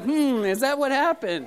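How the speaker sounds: lightly acted parental suspicion; imitating doubting parent. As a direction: play a parent humoring a fib. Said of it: "And we're like".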